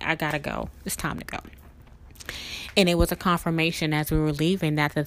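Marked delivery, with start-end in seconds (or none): 0.0-1.4 breathless whisper, voice almost gone; hushed urgent whisper. Retold or imitated. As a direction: whisper it as if too shaken to speak. Shaken, wanting to leave.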